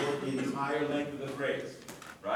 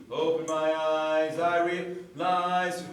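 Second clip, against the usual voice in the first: obvious catch breath mid-phrase; exaggerated gasping breath; 2 semitones higher, 4 dB louder than usual. Shown as a demonstration. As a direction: overdo the breath so it shows. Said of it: "and I'm exaggerating".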